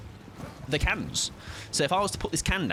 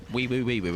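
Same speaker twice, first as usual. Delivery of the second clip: mock siren. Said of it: "I'm a police lady".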